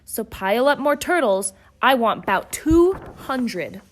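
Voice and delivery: royal demand. Acted. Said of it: "his royal voice thundered".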